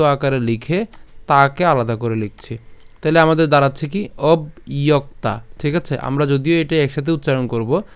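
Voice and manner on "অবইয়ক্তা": "অবইয়ক্তা" slowly split as ob, then iyokta; slow split reading of "অবইয়ক্তা"; broken into parts. Shown as a demonstration. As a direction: say "অবইয়ক্তা" in separate pieces, ob-iyok-ta. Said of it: "একটু ভেঙে উচ্চারণ করার সুবিধার্থে".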